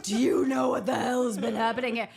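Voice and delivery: loud, indignant retold tirade; hammed-up telling-off rising into laughter; going off. Junior doctor berating her attending, indignant. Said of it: "going off".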